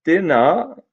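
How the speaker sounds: frightened pixie tripping over the first word; a startled, stammering question; nervous stammer. A narrator's reading. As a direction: stammer it out, rising to a high squeak. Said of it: "stammered Binky".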